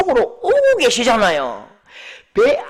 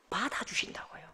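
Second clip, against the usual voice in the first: whisper; 17 dB quieter than usual. Real, not acted. Sermon emphasis dropped to whisper.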